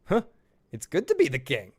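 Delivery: a hint of a Mel Brooks king, pleased with himself; sly aside to the audience; lightly voiced smug king. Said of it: "turn to the audience and go".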